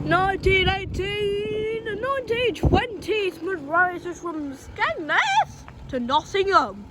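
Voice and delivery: slow, high eerie spooky voice. Pretend. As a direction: drag it out like a ghost. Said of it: "I'm trying to do it in a spooky voice".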